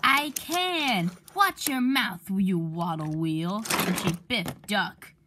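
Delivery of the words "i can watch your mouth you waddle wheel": snapping back. Acted. Emily picking a fight.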